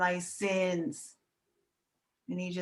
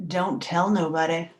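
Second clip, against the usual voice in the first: Virgin Mary impression; 3 semitones lower than usual. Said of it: "this is my impression of the Virgin Mary".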